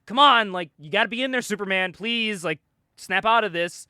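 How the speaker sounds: Tommy pleading with Superman to snap out of it, urgent. Retold or imitated. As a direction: beg him to snap out of it.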